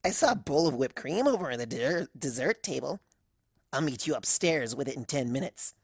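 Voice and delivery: a flirty, secretive tone; sultry. Acted. Cloudy flirting.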